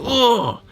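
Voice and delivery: high, drawn-out "oh"; drawn-out awed groan; wincing reaction gasp. Retold or imitated. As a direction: re-enact a big reaction to movie violence. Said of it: "made me go".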